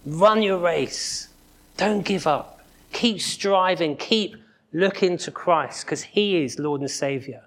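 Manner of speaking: rally a runner who's about to give up; lightly cheering on the runner; cheering crowd. Retold or imitated. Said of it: "who are saying".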